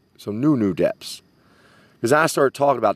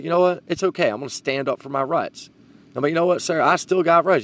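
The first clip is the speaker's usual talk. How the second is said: defiant resolve; 7 semitones higher than usual. Retold or imitated. Resolves to stand up.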